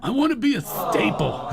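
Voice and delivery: insistent mock-actor voice; whistling S impersonation. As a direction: whistle the S of "staple". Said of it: "with a whistling ass".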